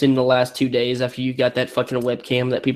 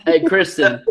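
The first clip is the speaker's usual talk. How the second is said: impression of Kristen; 2 semitones higher, 4 dB louder, slower than usual. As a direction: mimic her greeting, hammed up. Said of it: "That's such a bad impression".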